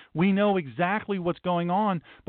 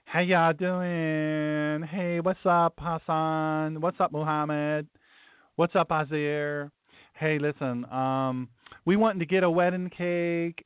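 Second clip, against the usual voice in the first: lightly camped-up friendly customer voice; a hint of a flamboyant man asking for a cake; mock gay customer; slower than usual. Man pretending to be gay asks the baker, lightly camped-up. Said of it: "the guy pretending to be obviously gay".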